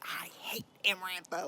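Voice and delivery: unvoiced confiding whisper. Rysand venting to Feyre, whispered. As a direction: hush it like a secret confession.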